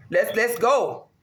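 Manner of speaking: drawn-out let's go; slow build-up. Real, not acted. To herself before the sacrifices, a slow warm-up chant. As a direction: ease into the hype slowly.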